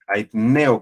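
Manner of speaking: "aitneo" with the stress on the E; accent on E. Shown as a demonstration. Preacher showing the congregation the accent, "aitneo" stressed on E. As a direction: lean on the E of "aitneo". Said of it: "con acento en la E".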